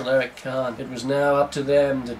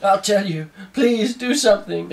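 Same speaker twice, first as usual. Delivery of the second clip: mock begging; 5 semitones higher than usual. Begging terrorist, higher.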